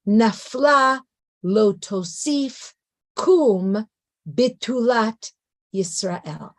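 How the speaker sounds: "Nafla, lo tosif, kum" then "bitulat, Yisrael", slow separate beats, falling away at the end; lamentations meter. Shown as a demonstration. Teacher showing a dirge's meter, "Nafla" to "Yisrael" in measured beats. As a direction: recite "Nafla, lo tosif, kum, bitulat, Yisrael" haltingly, a pause after each beat. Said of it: "What I want you to pay attention to is the meter".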